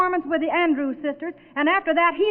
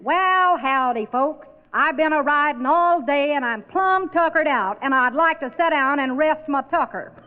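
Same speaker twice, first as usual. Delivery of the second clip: corny cowboy drawl. Retold or imitated. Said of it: "I'll just bet the first thing he says is".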